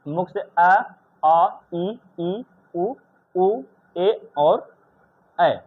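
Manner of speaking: each vowel drawn out slowly through the mouth; slow teacher demo of vowels said only through the mouth; oral vowels demo. Shown as a demonstration. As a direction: sound out आ, ई, उ, ए, ऐ clearly from the mouth. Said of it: "अब बोल के देखो थोड़ा सा".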